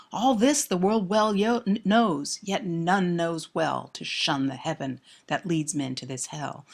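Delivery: understated despair, sinking at the end. Shown as a demonstration. Lecturer rereads the couplet as resolution, mildly despairing. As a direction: recite it with a touch of despair. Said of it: "a voice of despair".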